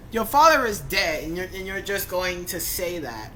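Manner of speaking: loud, high disbelief; indignant outburst. Real, not acted. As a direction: rant in disbelief. Outraged at story line.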